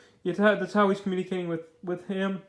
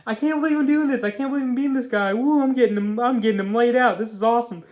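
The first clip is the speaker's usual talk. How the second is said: excited, raised-pitch mock amazement; surprised Phil; 3 semitones higher, 4 dB louder than usual. Reviewer acting out the villain beating his foe, surprised. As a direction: play thrilled disbelief at your own success. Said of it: "he's surprised".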